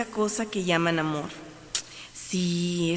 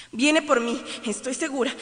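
frightened; 5 semitones higher than usual. Acted. Growing panic.

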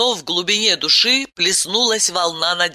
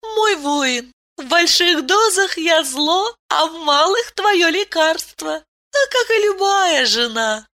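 purring; 12 semitones higher than usual. A narrator's reading. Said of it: "Промурлыкала".

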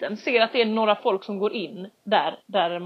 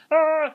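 high loud exasperated cry; stressed yell; 6 semitones higher, 5 dB louder than usual. Retold or imitated. Ringer kompisen förgäves. (stressat utrop)

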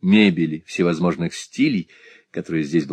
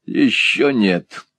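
sarcastic; much slower than usual. Acted. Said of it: "саркастически отозвался Ральф".

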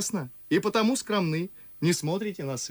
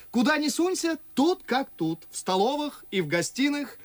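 higher-pitched satirical gossip; lively mockery; 4 semitones higher than usual. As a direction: poke fun at society acquaintances. Чацкий высмеивает московских знакомых. (насмешливо, оживлённо)

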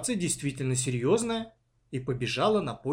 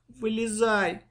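high, begging call; frightened girl begging her sister to climb out; plaintive plea; 8 semitones higher, slower than usual. A narrator's reading. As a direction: plead pitifully with her. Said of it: "жалобно взмолилась Маша".

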